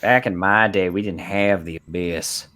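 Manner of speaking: put-on old-timer voice. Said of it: "where these accents come from?".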